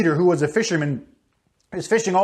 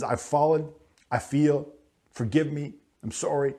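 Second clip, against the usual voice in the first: quiet confession; 4 semitones lower, 5 dB quieter than usual. Retold or imitated. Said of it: "comes to him and says".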